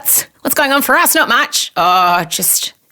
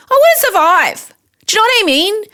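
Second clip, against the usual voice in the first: mock despair; 12 semitones higher than usual. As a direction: overdo the heartbreak. Dramatic despair at failing.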